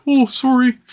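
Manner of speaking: exaggerated polite sorry; mock apology. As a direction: put on a big apologetic oh. Imagined people apologizing to each other.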